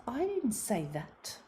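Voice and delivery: sulky daughter denying it; teenage daughter answering her mother, mildly whiny; defensive teenager. Retold or imitated. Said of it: "And she goes".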